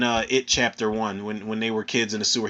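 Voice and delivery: ordinary delivery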